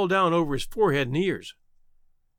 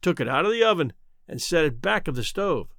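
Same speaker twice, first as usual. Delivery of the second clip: plain reading voice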